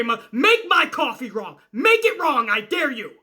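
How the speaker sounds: mock-raging dare; hammed-up threat, rising then dropping at the end; Goldberging out. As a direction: act pissed off at the coffee workers. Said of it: "I'm Goldberging out".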